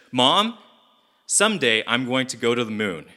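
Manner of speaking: put-on a touch of a kid's eager voice; lightly voiced boy calling to his mom; eager little boy; young Gru voice.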